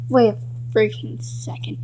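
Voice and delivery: hushed whisper; whispered realization. Acted. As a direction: whisper it, suddenly alarmed. Notices wrong room.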